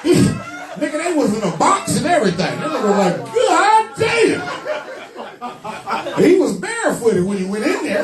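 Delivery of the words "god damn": amazed shout. Retold or imitated. Man seeing his new shoes, amazed shout.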